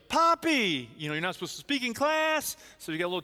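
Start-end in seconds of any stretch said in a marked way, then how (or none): 0.1-0.9 high, loud joyful shout of a name; excited yell. Retold or imitated. Granddaughter yelling across the classroom, loud and thrilled. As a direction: call out Poppy with delight. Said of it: "she yells".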